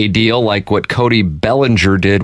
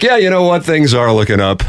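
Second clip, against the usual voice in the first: put-on upbeat tone, higher pitch; 6 semitones higher than usual. Retelling own past words while on a high: imitating own upbeat mood. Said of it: "if I'm ever on a high".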